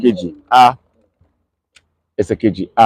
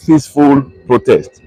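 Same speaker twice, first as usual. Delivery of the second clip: "peaceful protest" repeated with deliberate weight after a pause; emphatic PEACEFUL PROTEST. Real, not acted. Broadcaster drilling protesters' rights, stressing "peaceful protest". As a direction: lean on "peaceful protest" as the key phrase. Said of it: "I am emphasizing the word".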